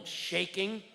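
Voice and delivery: usual speaking voice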